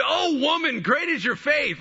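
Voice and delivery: high, loud, amazed praise; Jesus exploding with joy. Retold or imitated. Jesus praising the woman's faith, exploding with joy. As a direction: burst out with joyful approval. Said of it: "he explodes in this joy".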